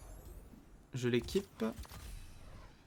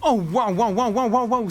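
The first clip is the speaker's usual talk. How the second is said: loud, higher repeated waouh; amazed waouh; 8 semitones higher, 10 dB louder than usual. Real, not acted. Player stunned by the hit he took, loud repeated waouh. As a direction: gasp it out in disbelief.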